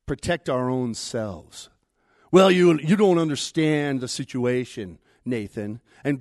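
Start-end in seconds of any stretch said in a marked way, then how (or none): 2.3-5.8 louder protest, pushing back; defensive deflection. Acted. Sinner deflecting Nathan's accusation, loudly defensive. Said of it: "try to deflect".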